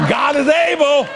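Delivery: shouted church line; preacher shout. Shown as a demonstration. Preacher shouting to the congregation. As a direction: call it out from the pulpit.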